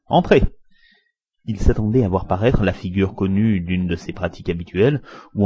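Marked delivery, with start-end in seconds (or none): 0.1-0.4 high, loud, cheerful call; joyful shout. A narrator's reading. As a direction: call the visitor in gladly. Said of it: "d'une voix joyeuse qu'il cria".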